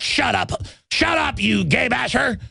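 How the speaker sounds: high, hammed-up shout of a jeering critic; mock angry shout. Critics silencing the warning, mock angry shout. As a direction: bark it like a sneering heckler. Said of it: "They're like".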